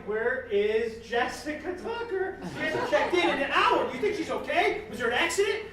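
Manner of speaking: hammed-up worry, rising into alarm; freaking out. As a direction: fret like an over-anxious watcher. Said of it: "Facebook is freaking out right now".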